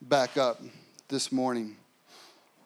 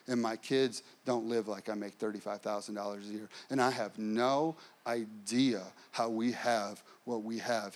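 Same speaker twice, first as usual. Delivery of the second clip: softer, heartfelt, unhurried testimony; quiet sincere answer; 4 semitones lower, 4 dB quieter than usual. Retold or imitated. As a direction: confess it softly from the heart.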